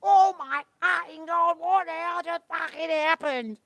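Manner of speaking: high, loud, slowed disbelief; shocked yell. Real, not acted. Streamer yelling high and loud at what just happened. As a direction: bellow it out in shock. Shocked at sudden game event.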